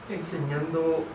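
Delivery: ordinary delivery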